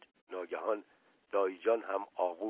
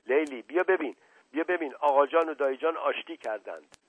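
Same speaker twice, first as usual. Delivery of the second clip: higher, louder joyful call; 5 semitones higher, 5 dB louder than usual. Acted. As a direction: call to Leili down the hall. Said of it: "فریاد زدم". (فریاد شاد و بلند)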